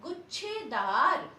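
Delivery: teacher stresses गुच्छेदार slowly; slow emphatic pronunciation. Shown as a demonstration. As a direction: spell out गुच्छेदार slowly by sound. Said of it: "next है".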